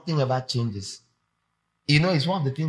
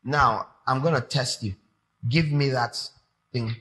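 stern God. Retold or imitated. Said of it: "looks at someone and says".

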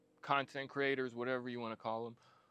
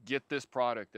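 sales pitch; 6 dB louder than usual. Retold or imitated. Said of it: "never ever say".

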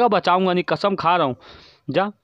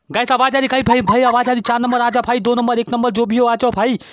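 higher-pitched, insistent call to teammates; urgent calling out; 3 semitones higher than usual. Real, not acted. Player asks teammates if they hear him, urgent calling out.

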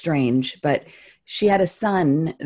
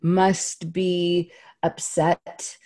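tentative labeling; slower than usual. Retold or imitated. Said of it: "feels a little scary to say".

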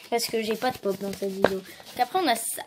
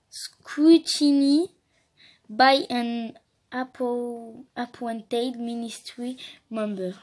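French accent; much slower than usual. Real, not acted. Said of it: "Vous allez voir mon accent de ouf".

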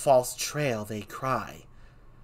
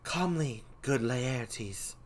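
higher and much louder, furious; raging Laertes; 5 semitones higher, 8 dB louder than usual. Acted. Laertes raging at the king over his father, furious. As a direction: hurl it at the king.

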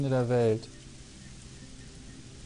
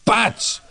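loud mock smack sound; Schlaggeräusch; 8 semitones higher, 7 dB louder than usual. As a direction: blurt out a smack noise. Spieler macht Schlaggeräusch. (lautes Klatschgeräusch)

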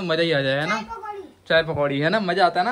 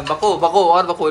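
slow, louder taunt, drawn out; 6 dB louder, slower than usual. Real, not acted. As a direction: dare her to keep talking. Taunting sister in quarrel.

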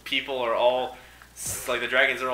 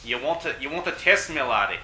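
put-on Scottish accent. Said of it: "talk in a Scottish voice".

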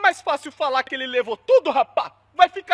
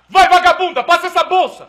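robber line; 5 dB louder than usual. Shown as a demonstration. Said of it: "se aproxime e fala a frase".

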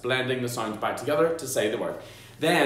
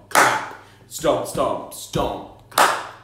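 body percussion chant; 4 dB louder, much slower than usual. Shown as a demonstration. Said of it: "do things like stomp".

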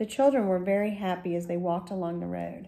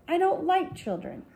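put-on much higher, mean old wife; lightly voiced sour wife, higher; 11 semitones higher than usual. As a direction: spit it out like a woman who dislikes kids. Baker's wife speaks sourly.

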